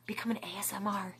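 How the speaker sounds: soft unvoiced ASMR whisper. Shown as a demonstration. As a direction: whisper it close like an ASMR video.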